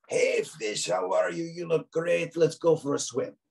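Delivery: high, cheery shark greeting; friendly shark voice. Acted. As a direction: chirp it like a happy shark inviting a friend. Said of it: "but that's his voice".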